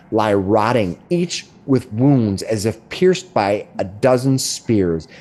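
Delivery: slow, ominous description of the scene; scene narration. Acted. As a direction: set the grim scene, slowing on the gore. GM describes the bloody hallway.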